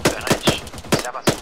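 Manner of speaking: loud shouted callout; shouting. Real, not acted. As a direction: yell it across the field. Calling teammate in firefight.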